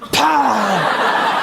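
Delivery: high, punchy sound effect; imitated "pow". Imitating wife dabbing on alcohol, punchy sound effect. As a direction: punch out a drawn, comic "pow". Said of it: "then she'll be like".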